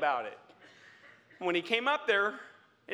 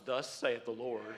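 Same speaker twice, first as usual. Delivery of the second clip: lower, slow and soft "Thus saith the Lord"; reverent quote; 6 semitones lower, 5 dB quieter than usual. Real, not acted. Preacher quoting the word to the bride, slow and soft. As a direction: hush it reverently, slowly. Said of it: "The bride knows".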